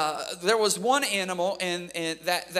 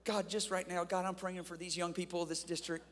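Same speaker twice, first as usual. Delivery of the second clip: mock prayer. Mock prayer over the young people.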